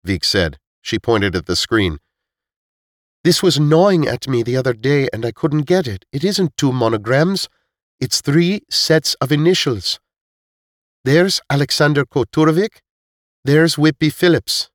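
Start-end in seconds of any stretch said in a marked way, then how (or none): 3.2-14.7 put-on girl character voice. Girl character explains initials.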